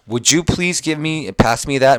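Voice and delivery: slow read-aloud. Shown as a demonstration. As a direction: read each word slowly for students. Teacher reads polite request. (또박또박 천천히 읽기)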